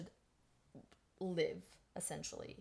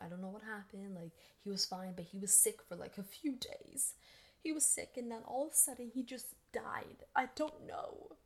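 high, whispery mock-tearful widow; fake grieving widow; 3 semitones higher than usual. Widow pretending grief to the police, hammed-up whimper. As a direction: play up a fake, breathy grief. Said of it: "A one acting".

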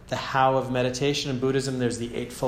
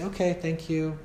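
gently; 4 semitones higher than usual. Shown as a demonstration. Teacher shows how to greet an arising thought, gently. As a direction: thank it gently, like a welcome guest. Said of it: "really gently just say".

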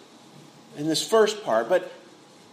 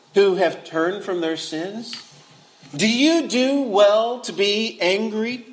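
gentle questioning. Retold or imitated. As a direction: ask it kindly like a patient father. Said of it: "The Lord gently kind of says".

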